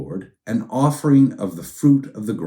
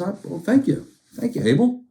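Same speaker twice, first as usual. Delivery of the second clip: mock God voice; 11 semitones higher than usual. God voiced thanking Abel.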